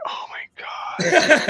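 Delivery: very high, drawn-out groan through laughter; hammed-up exasperation; mock dismay. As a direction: stretch it out in laughing despair. Acting out dismay at T J.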